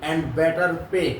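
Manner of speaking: very slow, word by word; drawn out so students can write; slow dictation. Shown as a demonstration. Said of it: "মুখস্থ করে রাখ". (ধীরে ধীরে বলা)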